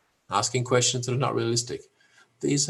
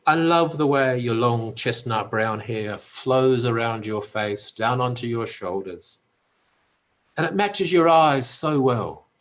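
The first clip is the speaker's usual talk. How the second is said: lightly acted slow sweet-talk; mock-romantic compliment, lifting at the end; romantic young suitor; 3 dB louder, slower than usual. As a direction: deliver a rehearsed chat-up line, drawn out. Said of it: "a young romantic male".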